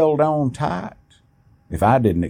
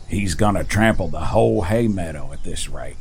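worried uncle; 5 semitones lower than usual. A narrator's reading. Old uncle worried about meadow.

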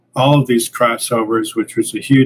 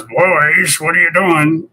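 stern boss; 6 semitones higher, slower than usual. Retold or imitated. Publisher catches them goofing off.

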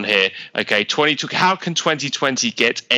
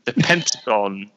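British accent; slower than usual. Shown as a demonstration. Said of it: "You're making fun of my accent".

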